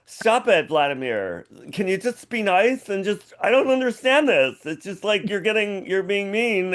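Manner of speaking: high pleading whine, close to tears; whiny Trump. Retold or imitated. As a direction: whine it high like a hurt child. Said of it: "it's like".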